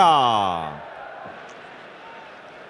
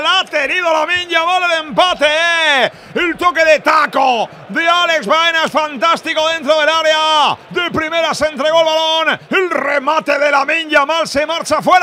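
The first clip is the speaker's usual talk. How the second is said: high, loud shouted recap; excited near-miss call; 13 semitones higher, 6 dB louder than usual. Real, not acted. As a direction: shout the chance, still buzzing. Commentator after near miss. (narración gritada de ocasión)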